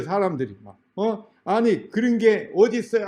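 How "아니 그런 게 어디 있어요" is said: higher-pitched mock protest; acted-out arguing, pitched up; indignant challenge. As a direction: object like an outraged applicant. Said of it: "하고 막 따지니까".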